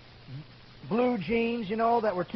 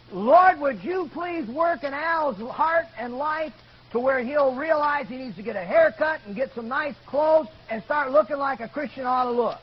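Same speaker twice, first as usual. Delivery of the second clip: raised, earnest public prayer; praying out loud; 4 semitones higher, 4 dB louder than usual. Retold or imitated. Gordy praying for Al's haircut, out loud. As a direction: petition God in a lifted voice. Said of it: "he prayed out loud".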